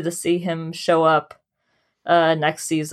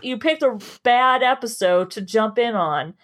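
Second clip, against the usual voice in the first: mock defensive plea; 4 semitones higher than usual. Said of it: "I'm like".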